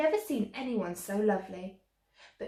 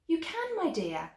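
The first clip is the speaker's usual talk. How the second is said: fairy godmother; 8 semitones higher than usual. A narrator's reading.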